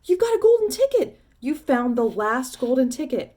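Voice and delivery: high, loud, thrilled shouts; excited shouting. Acted. Shopkeeper to the crowd, shouting with wild excitement. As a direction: call everyone over in wild excitement.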